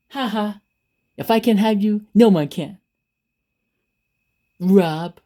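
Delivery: hammed-up jealous villain; mock villain threat. Spurned ex threatening Rob, mock villainous.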